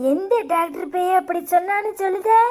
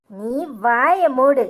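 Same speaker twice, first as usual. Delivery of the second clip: angry command; 4 semitones lower, much slower than usual. Acted. Mother silencing daughter angrily.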